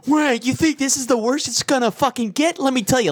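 stern adult. Pretend. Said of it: "I'd instantly just go really adult".

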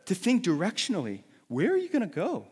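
high, loud preacher's call; forceful preaching. Acted. Preacher rallying the congregation, loud and high.

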